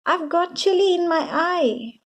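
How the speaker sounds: high, pained cry; boy with chili in his eye; panicked shout. A narrator's reading. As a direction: yelp in panic. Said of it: "shouted Louis".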